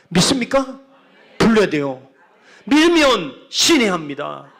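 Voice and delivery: loud call to the congregation; rally the crowd with a shout; preaching shout. Real, not acted. Pastor rouses the congregation to answer, loud shout.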